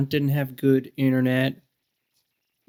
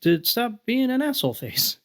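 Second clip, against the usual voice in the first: retold exasperated plea; 5 semitones higher than usual. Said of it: "I'd be like".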